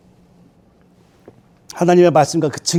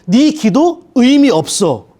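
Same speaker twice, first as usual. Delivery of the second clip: Satan's whisper; 4 semitones higher, much slower than usual. Acted. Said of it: "사탄의 속삭임입니다".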